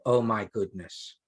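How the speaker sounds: an unmoved oh my goodness; flat, unimpressed. Shown as a demonstration. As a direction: say it with no shock at all. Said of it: "This crying stuff is not making me go".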